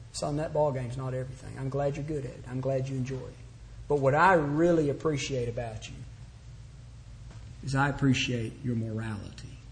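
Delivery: soft, low and sincere; a father telling his son what he values, soft and sincere; tender fatherly talk. Retold or imitated. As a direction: speak gently to your son, heart to heart. Parent speaking tenderly to son.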